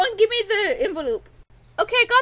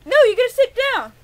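higher, louder scolding; 4 semitones higher, 4 dB louder, faster than usual. Acted. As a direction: tell him off sharply. Scolding Tony again.

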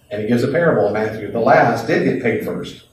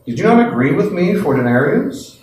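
sarcastic; 5 semitones higher, 3 dB louder than usual. Acted. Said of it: "a little bit sarcasm".

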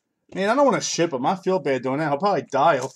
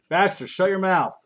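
sharp raised yell at the dog; 7 semitones higher, 5 dB louder than usual. Real, not acted. Owner yelling across the room at his barking dog, loud.

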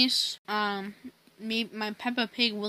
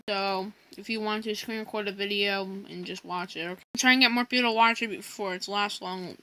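chewing between words; munching popcorn. Real, not acted. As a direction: speak around a mouthful of popcorn. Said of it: "I'm eating popcorn right now".

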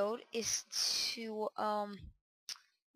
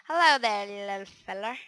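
loud greeting; 9 dB louder than usual. Pretend. Greeting the spider before killing.

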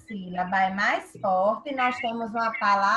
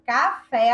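"café" with a louder final "fé"; stress on last syllable; 7 dB louder than usual. Shown as a demonstration. Teacher repeating the example for the class, final stress on "café". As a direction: punch the "fé" in "café". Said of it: "a sílaba mais forte é o fé".

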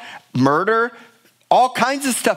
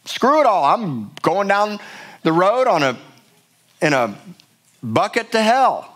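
acted reckless abandon; 3 semitones higher than usual. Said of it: "I didn't even care".

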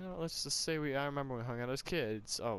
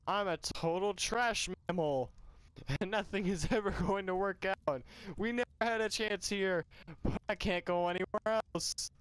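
higher, hammed-up self-pitying outburst; drunken lament; 5 semitones higher than usual. Drunk pouring out woes to people, mildly hammed-up lament. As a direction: wail lightly in drunken self-pity.

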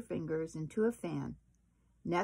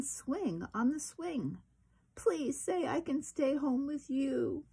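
put-on pleading child; 4 semitones higher than usual. Chester pleading to stay home with his mother, building childlike plea. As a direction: beg harder with each wish.

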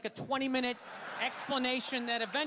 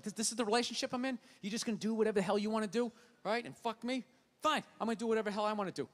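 fast, indignant rant; 2 semitones lower, faster than usual. Retold or imitated. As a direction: rattle off the grievance.

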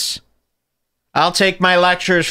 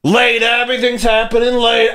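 high, monotone New York caricature; mock New York accent; 8 semitones higher than usual. Host mocking someone explaining the Constitution, New York accent. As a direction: ham up a New York talker, pitched way up. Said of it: "somebody talking like that".

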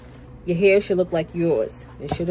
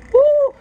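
excited whoop; 8 dB louder than usual. Real, not acted. Reacting to the heat.

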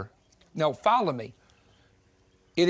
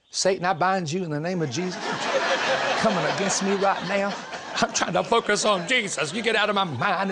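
mock rebuke of Satan; 3 semitones higher than usual. Young preacher rebuking Satan over a girl, comic mock urgency. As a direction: playfully act out banishing a distraction. Retold rebuke of a tempting thought.

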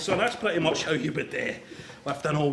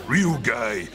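mimicked real guy; 5 semitones lower than usual. Man queries the other's voice, mimicking it. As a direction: lower mocking echo of REAL GUY. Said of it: "What kind of voice was that now?".

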